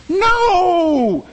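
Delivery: sharp high shout; loud high preacher's no; emphatic no. Real, not acted. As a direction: cut the mock voice off with a shout. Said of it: "preacher's rebuttal".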